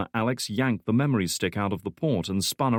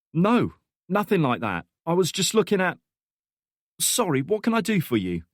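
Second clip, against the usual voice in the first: put-on higher, louder flustered young man; flustered Alex; 10 semitones higher, 3 dB louder than usual. A narrator's reading. Young man caught at the computer, flustered and higher. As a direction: stammer it out, caught off guard.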